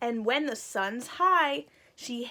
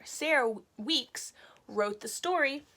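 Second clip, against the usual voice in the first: whisper. Shown as a demonstration. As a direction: hush it like a secret to the class. Teacher whispers aside to kids.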